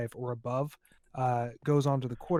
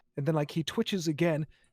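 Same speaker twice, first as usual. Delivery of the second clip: usual speaking voice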